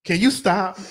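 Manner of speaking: low tired repeat; Mo's weary plea. Retold or imitated. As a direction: say it again, worn out. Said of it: "Sometimes Mo be like".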